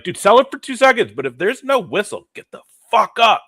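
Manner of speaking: high, loud yell at the players; angry coach yell. Pretend. Imagined coach yelling at floppers to get up. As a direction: bark it like a furious coach. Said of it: "I'd be like".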